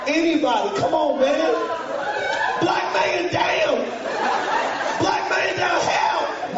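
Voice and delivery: calling for help. Retold or imitated. Pinned on the stairs, he calls to the room for help. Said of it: "trying to get someone's attention".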